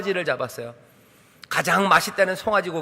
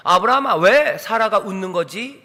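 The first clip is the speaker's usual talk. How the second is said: genuine question; 3 dB louder than usual. Acted. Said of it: "진짜 질문입니다".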